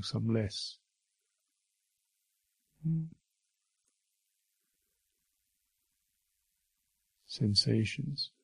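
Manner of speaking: unhurried meditation guidance with long silences; name each sensation, then leave space; guided meditation. Real, not acted. Teacher guiding listeners through bodily sensations, unhurried guided meditation.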